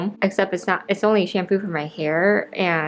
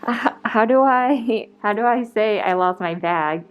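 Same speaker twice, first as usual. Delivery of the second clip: mild retold panic; 3 semitones higher than usual. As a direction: act out a slightly flustered plea. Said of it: "I was kinda freaking out".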